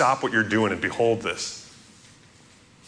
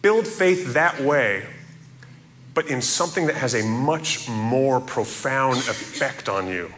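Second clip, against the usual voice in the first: imploring. Retold or imitated. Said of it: "John implores us".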